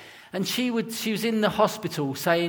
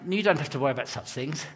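put-on quick, softer, posher English accent; 3 semitones lower, 5 dB quieter, much faster than usual. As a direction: imitate a posher friend from outside London. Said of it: "'Cause he's posher than me".

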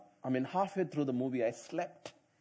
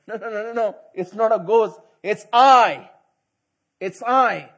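Jesus reassuring; 4 semitones higher, 7 dB louder than usual. Retold or imitated. Jesus calming the disciples.

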